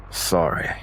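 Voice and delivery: forced apology through clenched teeth; through gritted teeth. Acted. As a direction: grit your teeth and spit it out. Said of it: "almost through gritted teeth".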